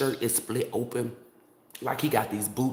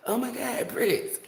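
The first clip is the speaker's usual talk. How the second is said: much higher, gushing; mock fangirl squeal; 12 semitones higher than usual. Mocking her past-life self meeting a singer, squealing. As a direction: squeal his name like a fan. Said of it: "some shit like".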